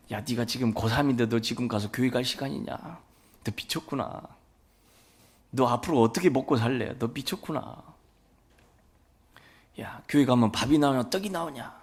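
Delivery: mock-scold like a worried dad; scolding father. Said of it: "제 아버지가 했던 말씀이에요". (고3 아들을 나무라는 아버지, 가볍게 흉내 낸 꾸중)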